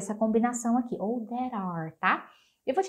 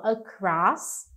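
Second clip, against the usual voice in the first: slow model phrase; 4 semitones lower, much slower than usual. Shown as a demonstration. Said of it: "do outro lado da rua".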